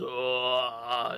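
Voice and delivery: open, loud warm-up ah; vocal warm-up. Shown as a demonstration. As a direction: stretch out the vocal cords. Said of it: "really open my, my vocal cords".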